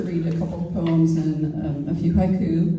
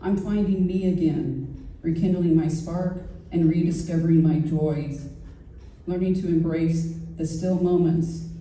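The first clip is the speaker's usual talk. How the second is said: measured verse recital with deliberate pauses; poetry reading. Acted. Poet reads about past relationships to an audience, measured poetry reading. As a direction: let each line of the poem stand apart. Reads own poem aloud.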